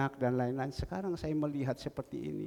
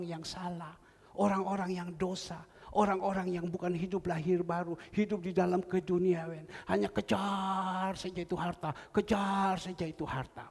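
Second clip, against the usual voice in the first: raised, ringing exhortation; preaching; 3 semitones higher than usual. Acted. Pastor exhorting the congregation, raised preaching voice. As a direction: urge the church to live rightly.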